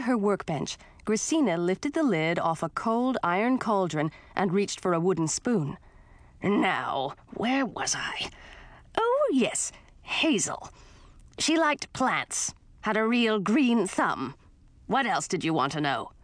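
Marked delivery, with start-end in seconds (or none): 6.4-16.1 put-on raspy, slow cranky old witch; grumpy witch aunt. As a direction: snap like a grouchy old witch. Voices grumpy aunt Gracina.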